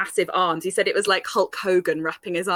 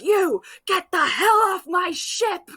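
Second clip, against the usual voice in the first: higher, slow, half-hammed order; mock stern officer; 8 semitones higher, 3 dB louder, slower than usual. Officer ordering the drunk brother off ship, mock stern. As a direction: play the fed-up officer lightly.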